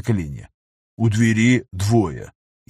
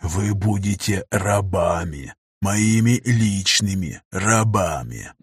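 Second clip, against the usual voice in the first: menacing captain; 3 semitones lower, much slower than usual. Acted. Captain threatens captives.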